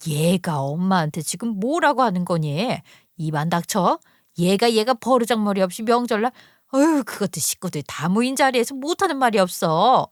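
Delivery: lightly voiced indignant mother; a touch of flustered reproach; scolding mother. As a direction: scold your daughter without shouting.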